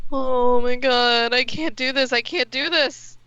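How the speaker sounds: panicked dread. Acted. Character panicking over the call.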